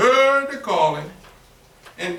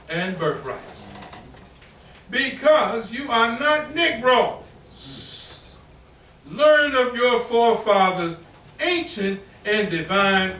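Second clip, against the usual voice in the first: slow, solemn reading of the call; preached proclamation; slower than usual. Retold or imitated. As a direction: proclaim it to the congregation. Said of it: "He says".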